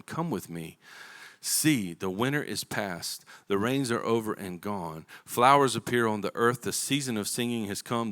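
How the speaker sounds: slow, tender reading of the verses; slow scripture read from the pulpit. Acted. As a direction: read it like a love poem, unhurried. Reads Song of Songs passage.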